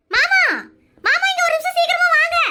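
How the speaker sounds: wife calling her husband over in a hurry. Acted. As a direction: shout for him to come quickly. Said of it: "எதுக்கு இந்த கதை கத்துற".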